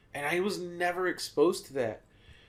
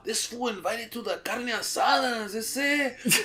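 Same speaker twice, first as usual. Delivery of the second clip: cholo voice; 6 semitones higher, 3 dB louder than usual. Retold or imitated. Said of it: "you'd be like".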